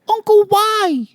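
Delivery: put-on high, slow little girl saying "Uncle, why?" with w for r; says w for r. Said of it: "Can't pronounce her R's".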